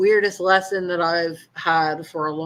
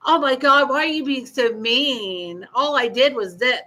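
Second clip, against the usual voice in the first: mock whiny ex; 4 semitones higher than usual. Mocking ex's whiny reply.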